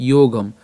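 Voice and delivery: "যোগম" as yo-gam, stopping on m; closed final m. Shown as a demonstration. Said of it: "ম হসন্ত পর্যন্ত উচ্চারণ". ("যোগম" শেষে ম হসন্ত)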